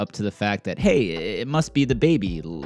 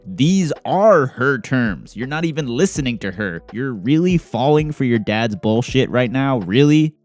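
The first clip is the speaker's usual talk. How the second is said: fed-up louder rant building to a shout; angry rant; 3 semitones higher, 5 dB louder than usual. Real, not acted. Ranting at the kids.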